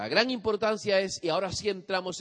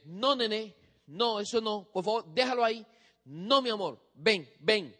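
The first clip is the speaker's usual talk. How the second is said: put-on higher, sweet coaxing voice to a small child; tender baby talk; 4 semitones higher than usual. Parent cooing to a toddler, tender and higher. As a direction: coo at the little one. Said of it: "usted le decía".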